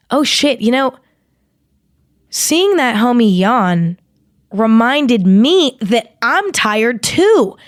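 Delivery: a lightly voiced inner thought, stretched out; voicing your own mind. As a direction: play your subconscious dawning on you slowly. Voicing your mind after a yawn.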